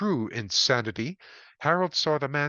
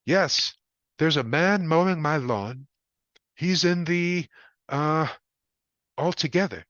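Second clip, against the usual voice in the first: higher and louder, fumbling for words; embarrassed caller searching for a polite word; flustered Harold; 4 semitones higher, 4 dB louder than usual. A narrator's reading. Harold telling the sergeant about the naked man, higher and flustered.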